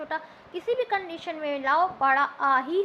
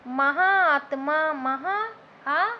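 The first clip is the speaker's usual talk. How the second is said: slow split demo; much slower than usual. Shown as a demonstration. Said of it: "slow split of महाआत्मा".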